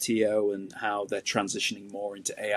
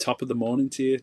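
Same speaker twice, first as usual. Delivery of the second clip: a light, hammed-up Irish accent; mock Irish accent; 2 semitones higher than usual. Asked for a British sign-off, slips into a mock Irish accent. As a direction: toss off a stock Irish greeting in a half-hearted Irish accent. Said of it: "No, that's Irish".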